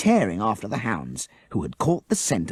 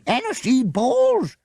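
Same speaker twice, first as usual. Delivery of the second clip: repeated exclamation; 6 dB louder, slower than usual. A narrator's reading. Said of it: "the huntsman repeated".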